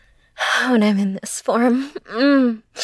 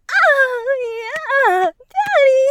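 high ecstatic cry; 12 semitones higher, slower than usual. Acted. Climactic cry in roleplay.

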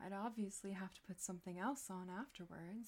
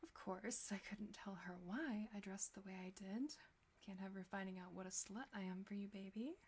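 hushed, intimate, teasing whisper; seductive whisper; 4 dB quieter than usual. Acted. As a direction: breathe it close to the mic.

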